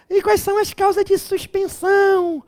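voz de falsete aguda e lenta de aluno; faça um aluno choroso em falsete; aluno imaginário. Pretend. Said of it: "Ai, professor". (aluno aflito pergunta ao professor, em falsete)

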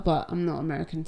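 ordinary talk

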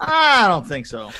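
slow, stretched mock skepticism; drawn-out doubt. Repeating the reaction to tiny jets, drawn-out doubt. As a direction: drag the first word right out, doubtfully.

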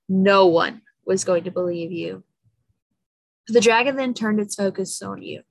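calm storyteller voice; story narration. A narrator's reading. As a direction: read it like a bedtime story. Reading a story aloud.

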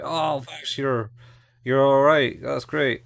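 high, bright relieved gush, imitated; half-mocking happy squeal; Meryl's delight. Meryl relieved to find Vash alive, high delighted gush. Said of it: "So Meryl's like".

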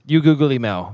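a light Zoolander line; lightly voiced Zoolander mangling words; Zoolander quote. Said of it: "Shout out to Zoolander right there".

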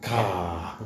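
"Car" with a dropped r, said as "cah"; Boston "Car" as a long open "cah"; Boston accent. Retold or imitated. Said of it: "He says car in a Boston accent".

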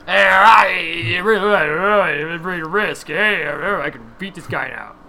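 put-on slurred Rocky-style voice from an old ad; commercial character. Recalling the Brisk commercial for the others, lightly slurred impression. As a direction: lightly imitate a slurring boxer. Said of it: "I remember the Brisks commercial".

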